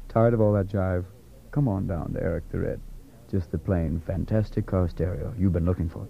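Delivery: low mock car stereo ad voice; mock radio ad. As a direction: spoof a smooth commercial announcer. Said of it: "I wanna do a whole takeoff on all those".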